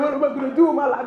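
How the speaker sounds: quick imitated tearful lament; mock crying. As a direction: rattle it off as if weeping. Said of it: "'cause I was crying".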